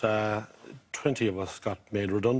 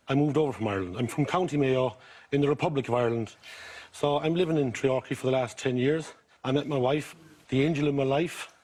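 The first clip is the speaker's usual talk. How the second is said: County Mayo accent. Real, not acted. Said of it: "you've got a County Mayo accent".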